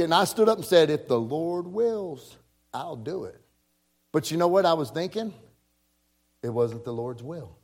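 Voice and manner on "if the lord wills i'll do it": dramatic statement. Retold or imitated. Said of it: "It was just a very dramatic statement".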